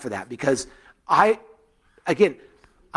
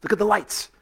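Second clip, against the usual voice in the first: put-on toddler's first word; 5 semitones higher, slower than usual. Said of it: "one of the first words was".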